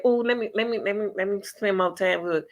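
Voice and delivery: lightly voiced mock of the girlfriend's sweet plea; a hint of a sugary fake request; mocking Alexis. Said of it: "For her to say".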